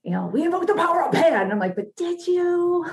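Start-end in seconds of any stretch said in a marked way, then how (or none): 0.3-1.4 high, loud, rushed mock triumph; hammed-up rallying cry; mock boastful proclamation. Voicing Coach Hedge's boast, then doubting it. 1.8-2.9 high, drawn-out doubting question; hammed-up gentle doubt; mock skeptical. Doubting retort to the quoted boast.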